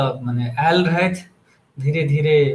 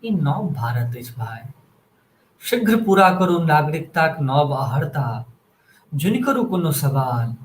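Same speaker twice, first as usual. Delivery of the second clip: poetry recitation. Acted. Host reciting a poem on new India to listeners, measured recitation. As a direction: recite it line by line, pausing after each.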